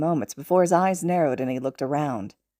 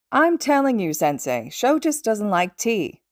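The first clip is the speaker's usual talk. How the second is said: Hisashi's voice, lightly voiced; 5 semitones higher, slower than usual. Hisashi teasing his teacher Nezu.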